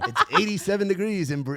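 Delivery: bright announcer voice, laughing; upbeat weather read; radio DJ voice. Shown as a demonstration. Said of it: "I'll try and get in character".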